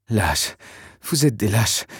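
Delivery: a lightly voiced groggy growl at her captors; half-awake woman growls at her kidnappers, mildly; growled insult. A narrator's reading. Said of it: "grogna-t-elle".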